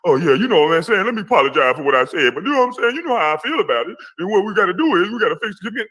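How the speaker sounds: fast, fawning mock apology. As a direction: rattle it off like a fake, eager apology. Parodying his fake apology.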